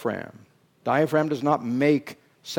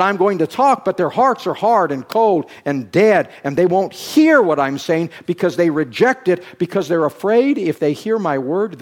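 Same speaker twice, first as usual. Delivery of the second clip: raised, insistent quoted speech; emphatic preaching; 3 semitones higher, 5 dB louder than usual. Retold or imitated. Preacher quoting Jesus on hardened hearts, loud and insistent. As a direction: press each reason home forcefully.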